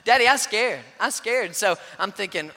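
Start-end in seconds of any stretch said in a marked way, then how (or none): 0.0-1.5 lightly voiced small girl, frightened; scared little girl. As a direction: plead like a toddler stuck up top. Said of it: "She's banging on the little glass".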